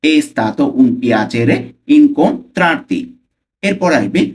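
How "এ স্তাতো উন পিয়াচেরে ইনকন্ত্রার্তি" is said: measured teaching pace, last word drawn out; slow pronunciation. Shown as a demonstration. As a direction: say it carefully so learners catch the sounds. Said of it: "slowly উচ্চারণ করবো ফার্স্টে". (ধীরে স্পষ্ট উচ্চারণ)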